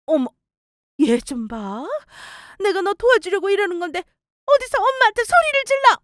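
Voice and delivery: lightly voiced mother, rising outrage at the end; offended mother. Mother scolding son for yelling, building indignation.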